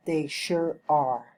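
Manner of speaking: slow, with "are" stressed and falling. Shown as a demonstration. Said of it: "falling intonation".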